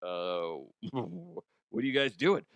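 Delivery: hushed confused passerby; hushed bewilderment. Retold or imitated. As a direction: ask it quietly, taken aback. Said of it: "you're like".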